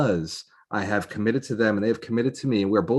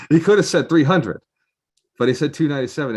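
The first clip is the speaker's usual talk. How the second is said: amused disbelief; 6 semitones higher, 7 dB louder than usual. Real, not acted. Amused at odd price.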